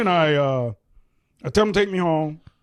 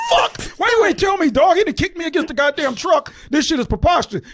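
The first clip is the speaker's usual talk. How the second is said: retold indignant protest; 6 semitones higher than usual. Retold quarrel with uncle after kick.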